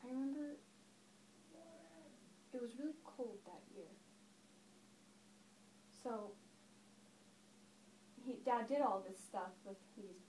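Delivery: lightly acted storyteller recalling childhood; understated reminiscence, swelling and then dropping back; Daphne. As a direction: tell it as a stage monologue, with long pauses. Performs Daphne's monologue about her father.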